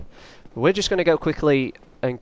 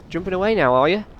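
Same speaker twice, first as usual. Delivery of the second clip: "Jumping away now" pitched higher, mocking the giant; taunting; 6 semitones higher, faster than usual. Gamer jeering at the giant for jumping away, higher taunt. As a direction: repeat it as a sing-song jeer, up high. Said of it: "don't talk smack to the giant guy".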